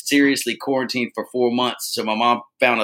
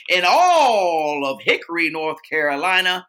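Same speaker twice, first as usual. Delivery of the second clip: hyped announcer; 5 semitones higher, slower than usual. Real, not acted. Podcast sign-off, hyped announcer.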